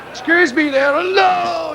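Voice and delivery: high excited character. Acted. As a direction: squeak it out excitedly. Character jumps too.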